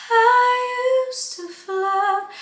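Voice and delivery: breathy h onset on "I used to float"; h before I. Shown as a demonstration. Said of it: "she adds a H before it".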